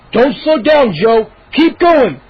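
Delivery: loud, high urging; urgent urging. Acted. Moose urging Joe on while running. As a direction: push your friend to keep running.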